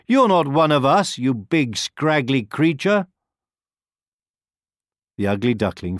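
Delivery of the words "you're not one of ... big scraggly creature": scornful ducks. A narrator's reading. Wild ducks taunt the duckling.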